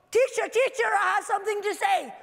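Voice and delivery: put-on a kid bursting to share news; eager child calling.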